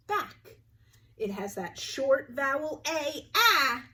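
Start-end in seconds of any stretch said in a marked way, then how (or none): 0.1-0.6 bright high back. Shown as a demonstration. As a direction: pitch the word back way up. Teacher repeats the blended word.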